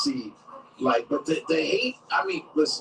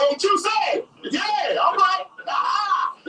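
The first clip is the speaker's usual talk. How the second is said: high, loud jeering inmate through laughter; taunting inmates; 13 semitones higher, 4 dB louder, slower than usual. Retold or imitated. Inmates taunting Smollett in jail, loud laughing jeer. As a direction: jeer at him like a rowdy inmate. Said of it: "be like".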